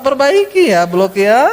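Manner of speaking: sweetly voiced correction, dropping on the insult; mildly hammed-up smiling put-down. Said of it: "Cuma sambil senyum".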